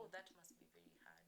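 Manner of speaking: soft, quick retold sympathy; imitating an understanding friend, softly; validating sympathy. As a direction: gently acknowledge someone's struggle. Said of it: "validating my experience".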